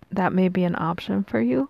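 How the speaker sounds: mid-yawn, stretched words. Real, not acted. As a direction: talk through a yawn. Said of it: "I keep yawning".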